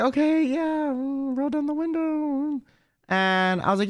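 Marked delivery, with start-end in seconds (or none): 0.0-2.6 awkward politeness. Retold or imitated. Storyteller reacting to the reeking passenger, mock awkward politeness. Politely hiding disgust at the stench.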